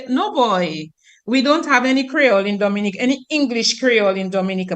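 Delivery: quick dismissive local denial; mock denial. Telling Dominicans they have no Creole, dismissive and quick. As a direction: brush it off fast, like it's obvious. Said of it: "we go into denial and we say".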